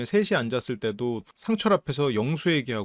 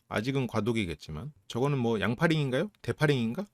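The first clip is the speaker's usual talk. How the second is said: ordinary talk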